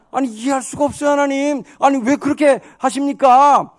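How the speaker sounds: high, exasperated appeal to God; acted prophet remonstrating loudly; heated protest. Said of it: "핏대 올리면서 막".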